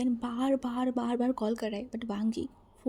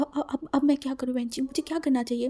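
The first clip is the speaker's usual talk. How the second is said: anxious panic; 3 semitones higher, faster than usual. Acted. Panicked sibling asks for help.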